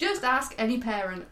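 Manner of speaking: put-on failed New Zealand accent, all over the place; wandering bad accent. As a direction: botch a Kiwi accent into Dick Van Dyke cockney. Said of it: "that went all over the place".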